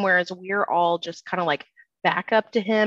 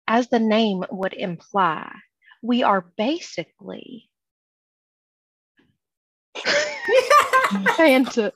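trying to stay grave but cracking up; breaking into laughter; 3 semitones higher than usual. Acted. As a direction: laugh through the line. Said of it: "Cerulean steps in and says".

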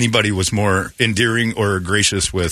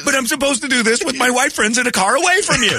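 high laughing confession; 13 semitones higher than usual. Real, not acted. Host laughs at his own joke. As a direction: crack up while confessing.

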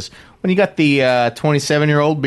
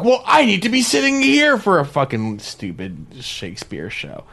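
imitating an irate caller, high-pitched, dropping off at the end; mock outraged customer rant; retold screaming complaint; 7 semitones higher than usual. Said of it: "people would scream about".

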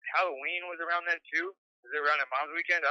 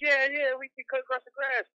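mock cool voice; 11 semitones higher than usual.

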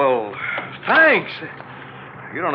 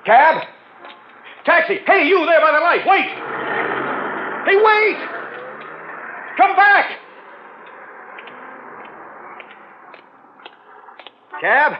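high, desperate shouts for a taxi; calling out; 12 semitones higher than usual. Acted. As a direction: yell after the car. Shouting after passing cabs.

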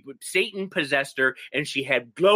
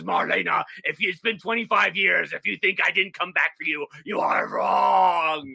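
devil voice. Retold or imitated. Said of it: "he starts talking like this".

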